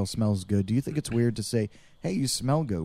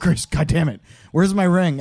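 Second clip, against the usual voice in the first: put-on annoyed, upset voice, higher and louder; 6 semitones higher, 7 dB louder than usual. Retelling how a friend complained about his lost ring: imitating an upset Wes. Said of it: "Wes was a little bit, bit upset".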